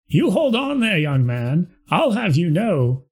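put-on folksy Midwest old-timer, the accent found again. Reginald puts the young mayor in his place, Midwest accent. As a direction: lean into the Midwest twang this time. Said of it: "wanna find his accent again".

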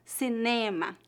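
"cinema" softly, weight on NE; stress on penultimate. Shown as a demonstration. Teacher showing learners the tonic syllable, stress on penultimate. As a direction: say "cinema" as see-NE-ma. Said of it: "que é a penúltima".

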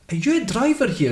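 high astonished question; catching the ex-boss in his taxi uniform; surprised. Retold or imitated. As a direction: pitch it up in disbelief.

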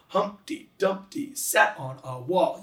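slow, beat-by-beat nursery rhyme; sing-song Humpty Dumpty; rhythmic nursery rhyme reading. Shown as a demonstration. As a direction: read it slowly, beating out each stress. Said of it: "You get the da, da, da, da".

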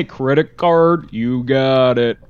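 slow, dragged Talkboy playback voice. Retold or imitated. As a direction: stretch it out like a slowed tape. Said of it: "our voices are all slowed down".

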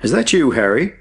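high, carrying call from far below; high-pitched questioning shout; calling back. A narrator's reading. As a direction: answer a hail across a distance. Distant friend shouts back up shaft.

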